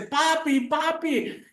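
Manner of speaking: put-on a frightened little boy calling out; trapped child calling down to his father, scared.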